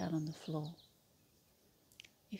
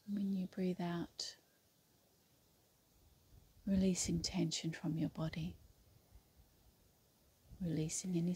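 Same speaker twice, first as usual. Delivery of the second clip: unhurried yoga nidra guidance with long pauses; guided meditation. Acted. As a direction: guide them through the breath, leaving space between phrases. Leads yoga nidra breathing.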